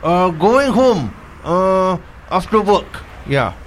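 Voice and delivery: talking through closed lips; closed mouth talking. Acted. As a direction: mumble without opening mouth. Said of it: "Why are you talking with your mouth closed?".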